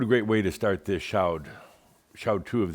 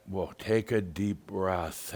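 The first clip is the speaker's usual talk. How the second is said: calm and unhurried; gentle calming advice; soothing; slower than usual. Retold or imitated. Soothing the upset caller.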